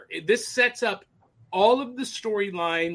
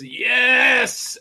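excited yes; 5 semitones higher, 7 dB louder than usual. Retold or imitated. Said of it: "he says".

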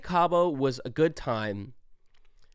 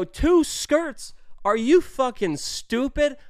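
high-pitched, loud disbelief; retold outburst, voice shooting way up in disbelief; incredulous outrage; 12 semitones higher, 6 dB louder, much slower than usual. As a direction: squawk it in indignant disbelief. Retelling outraged argument over bill.

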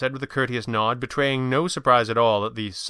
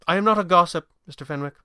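protesting; 7 semitones higher, 4 dB louder, faster than usual. A narrator's reading. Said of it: "the older man protested".

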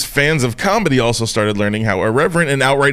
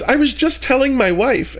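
imitating therapist; 13 semitones higher than usual. Therapist voiced in story.

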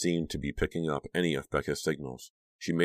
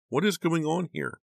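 shocked; 13 semitones higher than usual. A narrator's reading. Shocked at friend in room.

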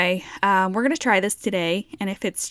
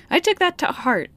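emphatic; 10 semitones higher, 5 dB louder than usual. Real, not acted. Mock earnest emphasis.

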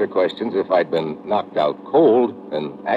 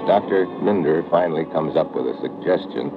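steady first-person detective narration; calm radio-noir narrator voice; story narration; 4 semitones lower than usual. A narrator's reading. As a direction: tell it like a hard-boiled private eye looking back. Narration over music.

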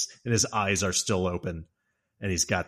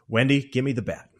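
demanding Jack; 3 semitones higher, 4 dB louder than usual. Retold or imitated. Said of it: "He's doing different voices".

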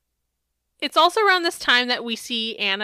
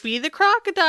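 imitated teacher; 8 semitones higher, faster than usual. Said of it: "they were like".

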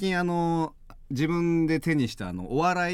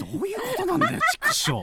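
mock frustration. Mock frustration at being dropped.

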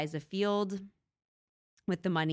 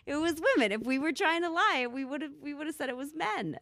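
mock believer; 10 semitones higher than usual. Continuing mocking believers.

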